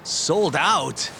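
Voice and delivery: taken aback, pitch jumping up; dismayed surprise. Acted. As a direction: blurt it in disbelief. Customer hears the mochi is gone.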